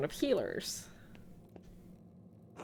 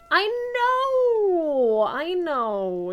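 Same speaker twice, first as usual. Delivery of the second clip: exclaim; 7 semitones higher, 5 dB louder, much slower than usual. Pretend. Mock agreement, game dialogue.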